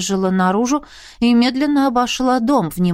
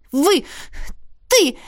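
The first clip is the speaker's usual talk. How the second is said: higher, sputtering outburst; outraged cry; 7 semitones higher than usual. Acted. Arnella confronting Roderick, outraged higher cry. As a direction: she can't even pick a word, so she yells. Bursting in to scold him.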